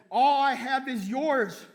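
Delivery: loud, slow declaration of generosity; earnest proclamation. Acted. Father to his older son, slow and loud. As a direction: spell it out slowly to the resentful son. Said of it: "Instead, it says".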